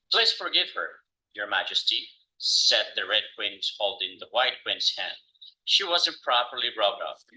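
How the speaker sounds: story read in a lightly British, Belfast-tinged accent. Real, not acted. Student reading Alice to the class, in a British accent. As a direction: read aloud with British-Irish intonation. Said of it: "very interesting British accent".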